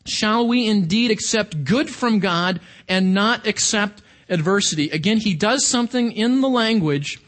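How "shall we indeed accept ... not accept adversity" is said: "good" and "adversity" stretched out and weighted, slower; emphasis on good and adversity. Shown as a demonstration. Preacher showing Job's emphasis, slow stressed words. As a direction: lean slowly on "good" and "adversity". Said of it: "Look at what he says".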